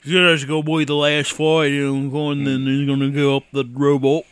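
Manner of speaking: jokey British accent, barely put on; a loose stab at a British accent. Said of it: "Is this British enough for you?".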